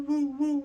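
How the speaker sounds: high woo like the car's rubbing noise; car noise imitation. Describing the car noise again, a high woo. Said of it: "it sounds like a woo".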